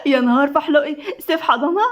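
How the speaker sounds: incredulous teasing through laughter; mock your friend, half laughing. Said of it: "الضحكة سمعت في البيت كله".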